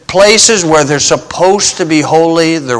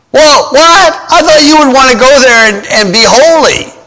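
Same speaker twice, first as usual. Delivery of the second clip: high, sarcastic feigned shock; sarcastic faux astonishment; mock surprise; 6 semitones higher than usual. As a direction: play innocent, dripping with irony. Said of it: "Amos is being sarcastic here".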